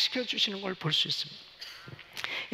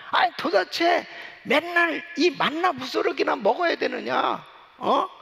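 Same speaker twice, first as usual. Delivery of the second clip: mock complaining; 5 semitones higher than usual. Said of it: "전부 불평불만을 하는 거".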